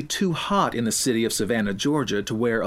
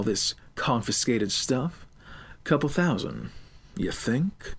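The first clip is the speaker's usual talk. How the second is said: gloating woman; 3 semitones lower than usual. Acted. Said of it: "Miss Gambit pondered aloud".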